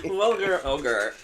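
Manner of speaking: vulgar ogre said very slowly, each sound spelled out; carefully enunciated tongue twister. Shown as a demonstration. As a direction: take vulgar ogre slowly so as not to trip. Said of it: "That's so hard to say".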